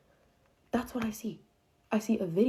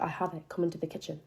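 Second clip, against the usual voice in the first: icy calm; 6 dB quieter than usual. Retold or imitated. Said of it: "got so calm".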